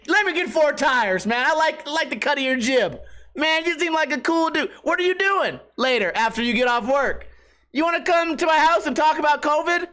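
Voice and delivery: high-pitched sarcastic chumminess; mock enthusiasm. Customer pretending to befriend preaching clerk, sarcastically keen. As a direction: gush as if hitting it off, hammed-up.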